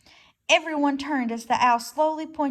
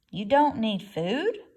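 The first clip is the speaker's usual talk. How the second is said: surprised; 5 dB louder, slower than usual. Acted. Fox surprised.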